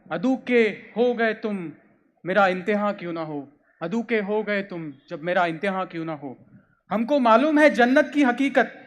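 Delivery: measured recital of Urdu verse; deliberate, phrase-by-phrase declamation; poetry reading. Acted. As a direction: savour each couplet as you read it out.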